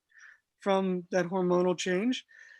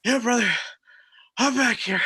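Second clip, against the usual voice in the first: calling back; 3 semitones higher, 5 dB louder than usual. Retold or imitated. Retold friend calling back.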